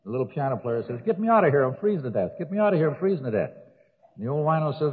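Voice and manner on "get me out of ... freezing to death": higher, pleading calls with the voice dropping on the cold; desperate yelling from the grave. Acted. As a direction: beg to be pulled out, half shouting. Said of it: "he hears a screaming over here".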